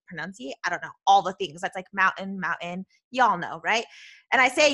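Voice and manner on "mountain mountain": "mountain" with the t swallowed, Utah style; "mountain" as a casual Utahn says it; Utah pronunciation. Shown as a demonstration. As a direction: say "mountain" with an under-pronounced middle. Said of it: "we just don't pronunciate".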